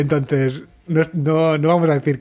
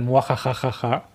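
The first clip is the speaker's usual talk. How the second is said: evil laugh; 3 dB quieter than usual. Retold or imitated. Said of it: "una risa de malvado".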